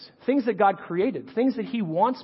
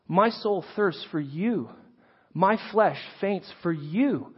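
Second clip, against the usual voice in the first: deliberate recitation with held phrase endings; scripture reading. Acted. Reads the psalm aloud.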